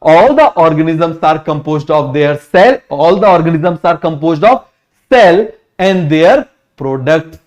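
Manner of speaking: very slow, halting word by word; teacher repeating the definition very slowly; slow dictation. Shown as a demonstration. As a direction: spell out the definition for students to write. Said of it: "क्या बोला आप मुझे बताओ जरा".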